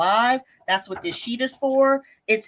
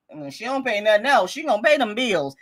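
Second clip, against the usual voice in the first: TikTok character. Retold or imitated. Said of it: "I just sounded like this TikTok character".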